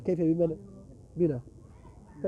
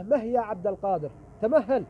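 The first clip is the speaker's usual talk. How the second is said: put-on drunk man calling out; 3 semitones higher than usual. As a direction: call after him like a drunkard demanding attention. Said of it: "وإذا بهذا المخمور يقول له".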